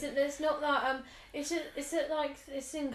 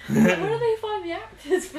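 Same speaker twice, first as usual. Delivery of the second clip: laughing; 7 semitones higher, 7 dB louder than usual. Real, not acted. Laughing at the actors.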